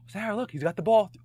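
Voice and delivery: mock hype announcer; mic announcer tease. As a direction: call it out over the PA to embarrass her. Teasing ex over the mic.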